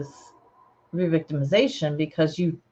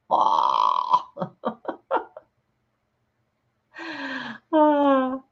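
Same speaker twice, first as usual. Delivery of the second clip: disgusted groan; 9 semitones higher than usual. Real, not acted. Reacting to cheese smelling like death.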